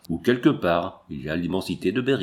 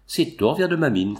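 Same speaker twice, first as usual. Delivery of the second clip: a raised, triumphant cry; cried out; 4 semitones higher than usual. Acted. The drunk miner shouting to the bar, raised triumphant cry. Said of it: "cria-t-il".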